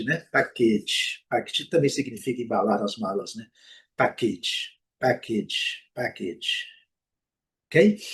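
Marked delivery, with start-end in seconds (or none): 0.3-1.2 Package said PAK-itch, second syllable short; English pronunciation. Shown as a demonstration. Teacher models the word package for learners, clear English pronunciation. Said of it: "Uma coisa interessante é o pacote". 4.0-6.7 package with final A said as short i; A sounded as I. Shown as a demonstration. Teacher drills the word for learners, A sounded as I. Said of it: "Som de A com som de I".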